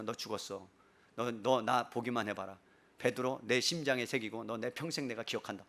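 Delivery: low, soft vow of revenge; quiet threat. Acted. Imagined Jesus vowing to remember Peter's betrayal, quiet threat. Acted grudge against a betrayer.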